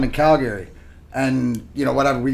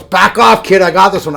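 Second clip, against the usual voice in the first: tough veteran; 3 semitones higher, 8 dB louder than usual. Retold or imitated. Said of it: "and he goes".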